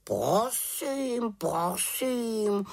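high, airy huffy raven voice; offended raven. A narrator's reading. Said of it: "urazil se Abraxas". (vysoký dotčený hlas havrana)

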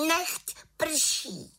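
high ringing spell call. A narrator's reading. Little witch casting rain, high calling voice. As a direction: cry out the spell up to the cloud.

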